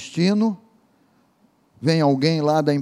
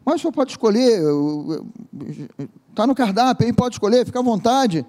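higher, sing-song stewardess voice pressing an offer; insistent stewardess; 5 semitones higher than usual. Acted. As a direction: play the eager flight attendant, voice up high. Aeromoça insiste com o passageiro. (voz aguda de aeromoça insistente)

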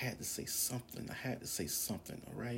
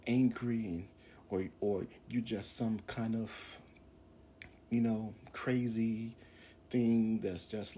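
fervent prayer; 3 semitones higher than usual. Real, not acted. Preacher praying to God for his people, fervent prayer. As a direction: pray it out, pressing on key words.

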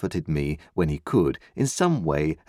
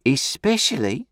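pompous uncle; 8 semitones higher than usual. A narrator's reading. Pumblechook chiming in at dinner, high and pompous. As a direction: cut in grandly from on high. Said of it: "said Mister Pumblechook".

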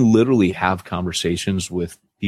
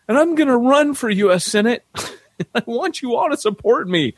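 grandiose churchgoer. Retold or imitated. Man announces Senate run.

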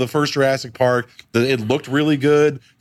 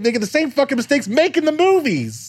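exasperated; 12 semitones higher than usual. Real, not acted. Exasperated rant peak.

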